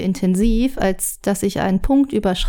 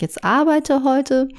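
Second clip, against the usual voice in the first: slow, raised nagging order; bossy taskmaster; 6 semitones higher, slower than usual. Retold or imitated. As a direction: order them back to work. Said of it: "der dir da unbedingt im Rücken sitzt und sagt".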